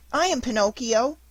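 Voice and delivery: put-on high, pleading boy's voice full of grief; a lost little puppet begging his dead fairy to come back; weeping puppet boy. Pinocchio announces himself.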